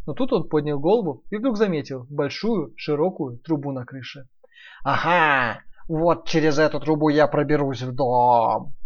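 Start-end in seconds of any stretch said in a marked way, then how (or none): 4.8-8.7 slow, sly wolf voice; gleeful wolf. Acted. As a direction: gloat like a scheming wolf. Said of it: "обрадовался волк".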